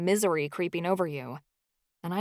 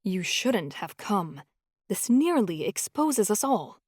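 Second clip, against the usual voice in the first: low ominous voice; slower than usual. Acted. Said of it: "a low voice from the next hallway utter".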